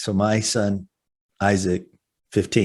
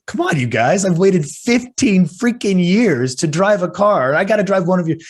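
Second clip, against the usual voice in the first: put-on teen son pleading; 7 semitones higher than usual. Teenage son begging his parents, mildly whiny plea. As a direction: beg like an impatient kid. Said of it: "he's looking at us both going".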